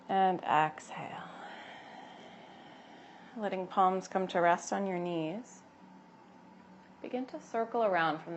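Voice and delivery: unhurried cues with long pauses between; gentle yoga guidance. Acted. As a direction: lead them calmly through each breath and movement. Guides breathing and gentle movement.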